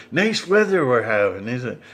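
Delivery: mildly imitated NPC stuck repeating itself; looping robotic small talk. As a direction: replay the scripted line as if stuck on a loop. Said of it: "And then he's".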